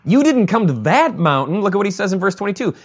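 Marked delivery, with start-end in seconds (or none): 0.0-1.6 emphatic declaration. Retold or imitated. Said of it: "what the author just said".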